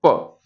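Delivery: just the lip burst of 'प', no trailing vowel; शुद्ध व्यंजन 'प', बिना स्वर के; bare consonant demo. Shown as a demonstration. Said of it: "होंठ खत्म होते ही ध्वनि खत्म".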